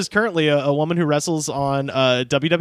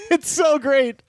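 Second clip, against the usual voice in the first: laughing; 9 semitones higher, slower than usual. Real, not acted. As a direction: crack up and savor it. Laughing delight.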